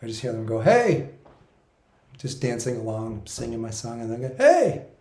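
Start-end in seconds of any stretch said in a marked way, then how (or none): 0.6-1.1 sudden high playful Hey; humorous spirit call. Retold or imitated. Spirit guides calling to him while dancing, high playful shout. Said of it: "the way they speak is humorous". 4.4-4.8 sudden high playful Hey; humorous spirit call. Retold or imitated. Spirit guides calling to him while dancing, high playful shout. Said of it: "the way they speak is humorous".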